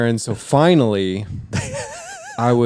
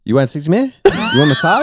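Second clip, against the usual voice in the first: Asian accent imitation; 13 semitones higher than usual. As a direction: push the shop lady's Asian-accented question up. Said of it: "I can do the impression".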